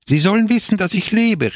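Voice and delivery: high, loud anguished cry; exclaiming. A narrator's reading. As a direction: burst out, desperate to be heard. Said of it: "rief er aus". (verzweifelt ausgerufen)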